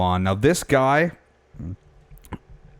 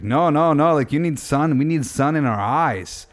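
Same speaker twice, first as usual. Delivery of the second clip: higher-pitched, insistent retold objection; retold insistence; 6 semitones higher than usual. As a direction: mimic someone insisting, pitched up. Retold stranger insists on sun.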